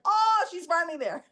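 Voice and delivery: amused coach finally satisfied; laughing imitation of Daniel. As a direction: chuckle it out like he's pleased.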